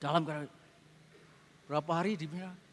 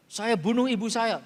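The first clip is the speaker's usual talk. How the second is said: robotic confession; 3 dB louder than usual. Retold or imitated. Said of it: "Seperti robot".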